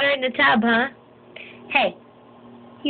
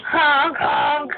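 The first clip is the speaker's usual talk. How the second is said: playful honk; a light honk to show the baby; honking noise on request; 3 semitones higher than usual. Shown as a demonstration. Parent demonstrating nose sound for baby, playful honk. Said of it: "You do it".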